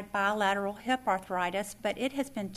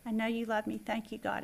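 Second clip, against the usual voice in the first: soft prayer; 6 dB quieter than usual. Retold or imitated. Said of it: "I remember to say".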